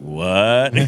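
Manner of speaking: loud stunned what; shocked. Retold or imitated. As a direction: blurt it in shock. Shocked on hearing mobster news.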